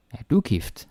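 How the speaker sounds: du stressed, falling at the end. Shown as a demonstration. Teacher showing learners the stress on du. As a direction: hit du and let the question fall. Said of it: "you can also put the stress in different places".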